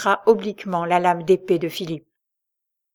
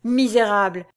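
howled insult; 3 dB louder than usual. Acted. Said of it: "hurla Albéric".

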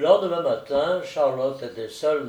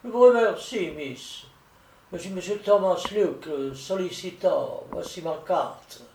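lightly voiced solicitor introducing himself; visiting solicitor; 4 semitones higher than usual. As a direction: open emphatically, then ease off. (voix légèrement jouée de solliciteur qui se présente)

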